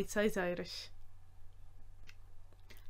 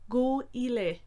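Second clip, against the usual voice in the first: slow, careful Irish phrase; said slowly; 2 semitones higher than usual. Shown as a demonstration. Teacher giving slow Irish command. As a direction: spell it out slowly for learners. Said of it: "slowly said".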